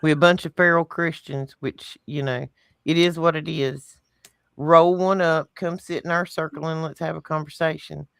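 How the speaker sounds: put-on easygoing Southern accent. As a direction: talk it out in a Southern accent, relaxed. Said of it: "let me put this in Southern for you".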